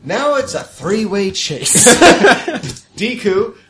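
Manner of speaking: loud high laughing narration; excited. Real, not acted. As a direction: tell the chase thrilled.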